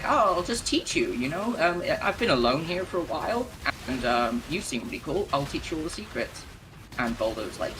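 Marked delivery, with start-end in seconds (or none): 0.0-6.4 super nice. Retold or imitated. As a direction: sweet-talk him like a lonely friendly spirit. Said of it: "the Shade is seeming super nice".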